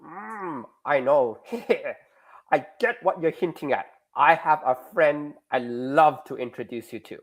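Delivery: lightly attempted Russian accent; horrible Russian accent. Teacher as the girl offering to introduce a friend, Russian accent. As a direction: have a loose go at a bad Russian accent. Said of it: "I do a horrible Russian accent".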